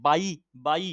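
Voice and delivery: বাই said as "baa-i"; inserted i sound. Shown as a demonstration. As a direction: repeat বাই to show the i after the vowel. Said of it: "হস্যই ধ্বনির উচ্চারণ হচ্ছে".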